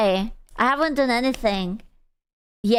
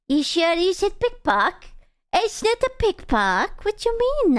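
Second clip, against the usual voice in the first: high mock confusion; 6 semitones higher than usual. Mock-confused reply to chat.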